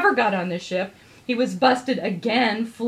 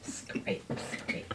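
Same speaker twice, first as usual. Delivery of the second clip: whispered laughing; 18 dB quieter than usual. Acted.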